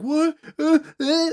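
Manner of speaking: sudden high squeak of confusion; baffled "what". Retold or imitated. Gang reacting to the news, in a high baffled squeak. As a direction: pitch it way up, like the gang just can't believe it. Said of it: "and they're like".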